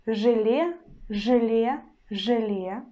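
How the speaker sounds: желе with hard ж and э sound; Russian demo word. Shown as a demonstration. Teacher demonstrates желе to learners, hard ж. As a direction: model желе as жэле, hard ж. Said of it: "So, for example".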